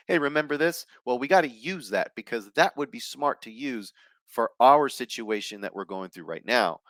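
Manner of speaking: bright, quick idea; like a lightbulb going on; eager realization. Retold or imitated. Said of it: "No, it's like".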